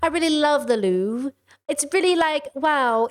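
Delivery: a prim British accent, mocking; mock-refined British accent; posh British. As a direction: play a genteel British tourist. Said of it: "I don't know why I made her British".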